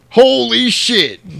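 high, loud, very slow astonishment; mock stunned exclamation. Commander hearing Maverick wants to instruct, slow stunned exclaim. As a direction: drag it out in disbelief.

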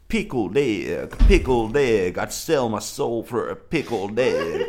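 drawn-out comic singer impression; Yellow Wolf. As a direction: stretch it out in a mock performance. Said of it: "Thank you, Yellow Wolf".

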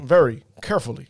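VERY and CAREFULLY each set apart; deliberate Obama-style "very ... carefully"; emphasized words. Acted. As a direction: lean on "very", pause, then "carefully". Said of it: "he emphasizes the words".

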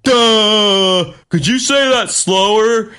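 high, drawn-out dimwit voice; clueless dope. Retold or imitated. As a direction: play yourself as a slow, clueless learner. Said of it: "And I'm like".

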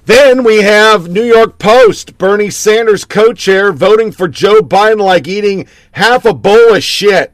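high, loud, slow mock headline call; hyped-up read. Real, not acted. Host introduces the next news story, loud hyped-up delivery. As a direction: announce it like a big gag.

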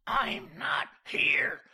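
slow, forceful stage whisper; hissed whisper. A narrator's reading. George hiding in the washroom, hissed whisper. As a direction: hiss each word without voice. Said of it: "George hissed".

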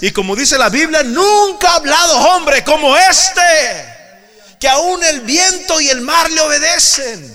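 loud, high, ringing proclamation; full-force preaching. Acted. Preacher proclaiming Jesus's words to the congregation, loud. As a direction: thunder it out to the church.

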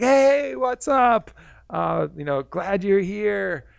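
cheerful dolphin spirit greeting a visitor; super happy dolphin. Retold or imitated. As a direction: beam like the happiest creature alive. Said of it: "super happy".

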